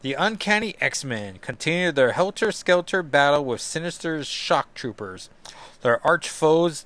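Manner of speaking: theatrical story narrator, emphatic delivery; dramatic recap narration. Acted. Opening the issue's battle for listeners, dramatic narration. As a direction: read it like a comic-book caption.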